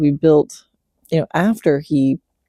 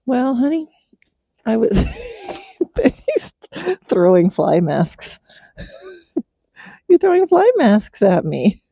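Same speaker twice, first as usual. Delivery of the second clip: laughing; 8 semitones higher than usual. Real, not acted. Horse throws fly masks, laughing.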